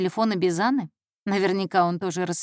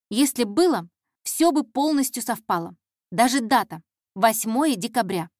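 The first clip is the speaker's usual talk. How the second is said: put-on slightly raised, intent girl's voice; earnest intern; 2 semitones higher than usual. Intern reasoning aloud to the detective, earnest. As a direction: lay out the match with growing conviction.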